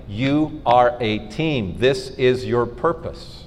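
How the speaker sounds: slow, measured divine voice; voice of God. Retold or imitated. God to the couple about their purpose, slow and calm. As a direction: deliver it calmly and slowly. Voicing God's message.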